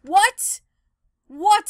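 high, loud rising what; shocked what at the physics; startled. Real, not acted. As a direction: squeal in real surprise. Surprised at glitch.

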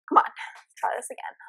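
breathed to yourself, no voice; whisper. Real, not acted. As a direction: whisper the resolve. Repeats retry, then whispers.

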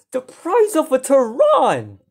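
slow, drawn-out exclamation; emphatic amazement. Real, not acted. Gamer compares the price for viewers, slow amazed emphasis. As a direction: stretch out the comparison in wonder.

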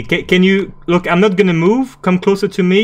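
high, loud rattled voice; shaken and urgent. Real, not acted. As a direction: still jumpy from the scare. Shaken after scare, urgent.

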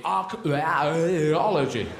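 "archaeology" with a long smear of vowels in the middle; garbled extra vowels. Shown as a demonstration. Mocking the word's vowel pile-up, "archaeology" with vowels smeared out. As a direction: break off after "arch-", then wobble through many slow vowels. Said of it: "unload a bunch of vowels in the middle".

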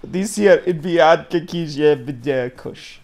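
put-on weak, slow Jamaican accent; badly faked Jamaican accent. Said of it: "You gotta say it with a Jamaican accent".

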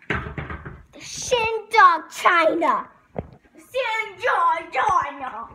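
very slow drawn out; slow spooky. Pretend. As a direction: stretch it like a spooky title.

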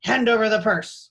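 loud, fierce robber demand; fierce command. A narrator's reading. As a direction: bark it like a highway robber. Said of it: "spoke in chilling voices".

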